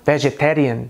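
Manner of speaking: "vegetarian" with a tapped Indian R; Indian English accent. Shown as a demonstration. Teacher contrasting with American, Indian accent.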